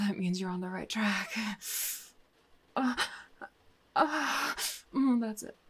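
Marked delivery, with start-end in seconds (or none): none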